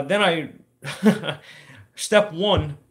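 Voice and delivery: laughing at the repair manual. Real, not acted. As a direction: laugh through the words.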